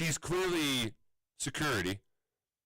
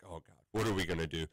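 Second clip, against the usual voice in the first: mock despair; 9 semitones lower, faster than usual. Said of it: "so I'm like".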